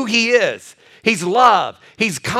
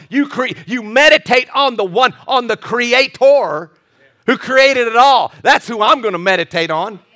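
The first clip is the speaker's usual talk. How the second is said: preaching emphasis; 3 semitones higher, 4 dB louder than usual. Real, not acted. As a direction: drive home the creator.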